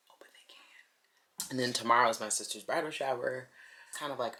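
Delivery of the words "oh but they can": sly hushed whisper. Retold or imitated. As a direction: whisper it with a grin. Playful whispered reply.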